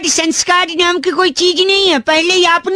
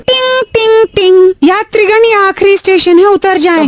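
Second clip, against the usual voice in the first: metro announcement; 3 semitones higher than usual. Pretend. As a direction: chime then station announcement. Repeats fake metro announcement.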